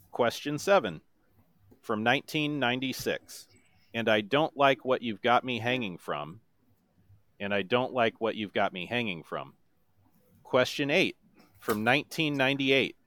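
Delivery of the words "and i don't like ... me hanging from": monotone voice. Shown as a demonstration. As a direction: speak the song, don't sing it. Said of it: "in my best monotone voice".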